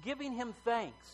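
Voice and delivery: measured Bible reading with long pauses; solemn public reading, phrase by phrase; scripture reading. Acted. Reads the Bible passage aloud.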